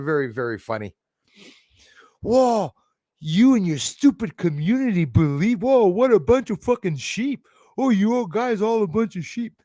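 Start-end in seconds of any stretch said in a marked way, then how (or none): 2.2-9.6 high, loud sneering troll voice; mock the troll's fake outrage; mocking fake-mad troll. Streamer parodies a troll jeering at his community, high and loud. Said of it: "You can tell they sound fake mad".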